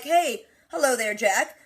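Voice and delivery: lightly acted composed greeting, slowing at the end; mock-formal hello with careful final words; held-together politeness. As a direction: imitate someone keeping it together. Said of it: "Jamie's holding it together".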